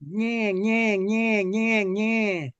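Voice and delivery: lightly voiced Robert De Niro; De Niro impression. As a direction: play the shark as De Niro. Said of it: "Robert De Niro would play the shark".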